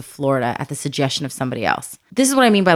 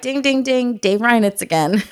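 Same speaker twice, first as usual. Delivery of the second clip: higher-pitched sing-out of an alert; mock alarm bell; 5 semitones higher than usual. Remembering a teacher's word in church, mock alert. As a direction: chime it like a bell going off.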